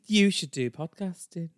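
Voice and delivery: insistent Yorkshire woman; Brenda. Acted. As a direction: urge them in a Yorkshire accent. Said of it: "she has such a strong Yorkshire accent".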